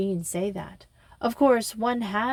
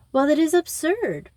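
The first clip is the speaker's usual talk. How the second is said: indignant protest, pitched up; 8 semitones higher, 4 dB louder than usual. A narrator's reading. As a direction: object with a high, emphatic lift. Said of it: "protested Missus Bantry".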